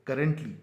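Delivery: करंटली with the two r's pulled apart; stretched. Shown as a demonstration. Teacher stretching out करंटली for students. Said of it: "इस आर को पहले देंगे".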